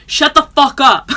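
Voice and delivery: high, loud mock shouting, laughing through it; hammed-up angry Philly local; mock Philly yell. Imitating how Philly people yell at friends, loud and laughing. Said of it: "people in Philly are like".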